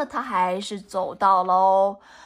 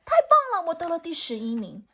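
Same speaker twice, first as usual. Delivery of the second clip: excited puppy; 7 semitones higher, faster than usual. Acted. Playful puppy cheering its eleventh place, high laughing squeal. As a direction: burst out laughing with joy at winning eleventh. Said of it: "小狗就说".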